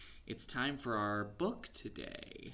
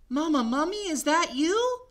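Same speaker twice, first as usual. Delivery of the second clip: calling for mama; 12 dB louder than usual. Acted. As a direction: call out lost in the dark. Baby mummy calling.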